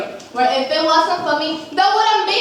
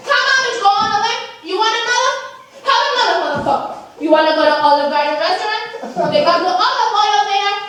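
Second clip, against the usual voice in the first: goading taunts; 5 semitones higher than usual. Retold or imitated. Goading Judas.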